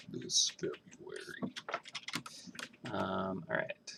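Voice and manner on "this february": slow, dramatic trailer announcer; movie trailer voice. Pretend. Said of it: "Movie trailer voice right there".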